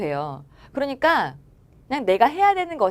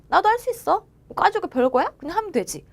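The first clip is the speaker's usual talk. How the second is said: confident cheer; 7 semitones higher than usual. Shown as a demonstration. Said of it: "이렇게 생각하세요".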